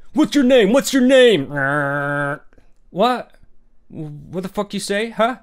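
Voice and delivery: high, loud hammed-up demanding shout; hammed-up yell at someone over a name; mock aggressive yelling. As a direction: bark it like a mock thug. Imitating aggressive doxer.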